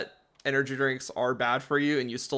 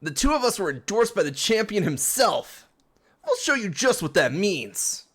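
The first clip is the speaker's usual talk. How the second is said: put-on higher, proud British accent; 6 semitones higher, 3 dB louder than usual. Hop boasting about the champion's endorsement, British accent. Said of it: "It's English, but with an accent".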